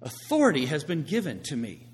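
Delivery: firm declaration of authority; confident. Acted. Believer claiming authority to preach the word, confident. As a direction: declare it with assured conviction. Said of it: "a confidence in him that says".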